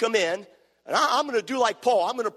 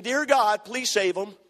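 loud, pleading cry, higher and louder; retold crying prayer; 5 semitones higher, slower than usual. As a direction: cry out to God like a weeping old father. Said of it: "started crying out loud and saying".

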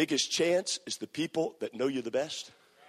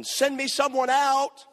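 higher, louder, slow bellowing challenge; giant's challenge; 11 semitones higher, 5 dB louder, slower than usual. Acted. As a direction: call out like a giant. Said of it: "sounds like the voice of a giant".

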